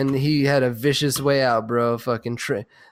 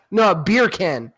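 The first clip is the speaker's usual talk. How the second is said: beer can drawn out slow and higher; mock British accent; 4 semitones higher, 4 dB louder, slower than usual. Shown as a demonstration. Fixing the joke to friends, mock British beer can. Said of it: "Beer can with a British accent turns into bacon".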